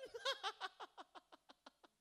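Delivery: a burst of high loud laughter. Real, not acted. Tertawa di tengah cerita. (tertawa lepas keras)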